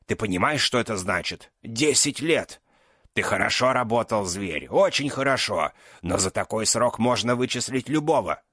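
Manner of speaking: put-on furious old man defending his betrayal; angry outburst. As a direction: keep the anger flowing while justifying himself. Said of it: "взорвался магистр".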